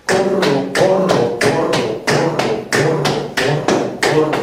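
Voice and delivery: "Corro" repetido en cadencia regular; ritmo de carrera. Shown as a demonstration. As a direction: recita al trote, dos sílabas por pulso. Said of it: "Bueno, voy a correr". (canturreo rítmico y parejo)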